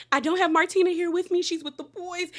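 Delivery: mock crying. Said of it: "She is now crying".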